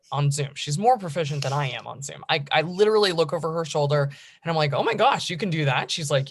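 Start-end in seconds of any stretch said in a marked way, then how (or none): 4.7-5.9 mildly amazed retold exclamation, higher at first; amazed parent. Mother marvelling at her six-year-old's Zoom skills, mock amazement. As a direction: act out a parent's impressed surprise.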